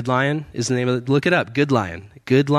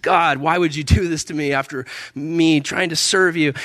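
mildly frustrated complaint, pitched up; retold grumbling; 4 semitones higher than usual. Man grumbling to God after failed sales, retold mild frustration. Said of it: "I was grumbling".

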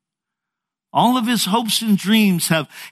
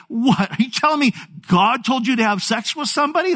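high, fast mock disbelief; incredulous; 7 semitones higher, faster than usual. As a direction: play a husband who can't believe his ears. Acted Joseph disbelieves Mary's claim.

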